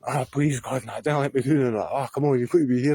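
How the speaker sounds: retold frantic prayer, lightly acted; frantic praying. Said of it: "like a madman".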